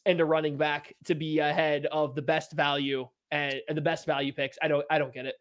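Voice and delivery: low, soft disbelief; deflated grumbling. Real, not acted. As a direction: sink down in defeat while still complaining. Losing the poll, gives up arguing.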